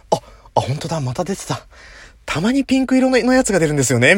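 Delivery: nonchalant mock reply with a laugh; airy laughing reply about the pink ones; casual stranger. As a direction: play it breezy, like it happens all the time. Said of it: "みたいな".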